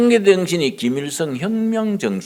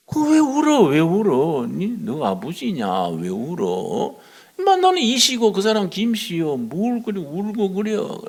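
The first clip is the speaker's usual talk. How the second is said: a pastor ridiculing a fellow's tears; mocking rebuke; 5 semitones higher than usual. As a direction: scoff at him in disbelief. Pastor mocks chairman's crying.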